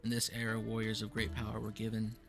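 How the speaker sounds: solemn fantasy scene-setting read; game master narration. Acted. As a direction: read the lore like an epic prologue. Game master reads era intro.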